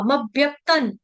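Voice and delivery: "मव्यक्तं" with a push on mav, doubled v; stress on म. Shown as a demonstration. Teacher showing students the stress, "मव्यक्तं" with doubled v. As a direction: lean on the first syllable, mav-vyak-tan. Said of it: "म पर आघात देना है".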